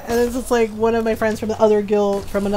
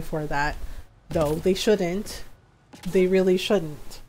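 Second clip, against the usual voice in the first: reassuring comfort. Real, not acted. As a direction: talk them through a hard day gently. Consoling a sad viewer.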